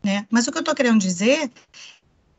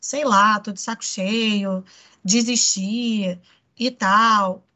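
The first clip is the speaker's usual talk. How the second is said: slow, dragging, fed-up sigh; slow and deflated, giving up; 3 semitones lower, much slower than usual. Shown as a demonstration. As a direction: let it sag like you've given up. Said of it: "mostra uma coisa meio assim".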